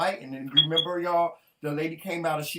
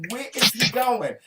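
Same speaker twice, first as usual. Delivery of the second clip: loud, higher, slow incredulous question; exasperated question; 6 semitones higher, 7 dB louder than usual. Retold or imitated. Wife retelling her alarm at husband climbing out of bed, exasperated. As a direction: retell it loudly, in disbelief.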